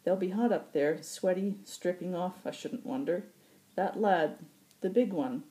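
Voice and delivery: put-on leering old pilot. Occam voiced, leering.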